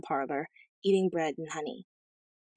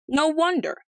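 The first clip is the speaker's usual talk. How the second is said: high, louder retort; sharp retort; 10 semitones higher, 5 dB louder than usual. A narrator's reading. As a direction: retort sharply to the queen, pitched well up. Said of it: "retorted the king".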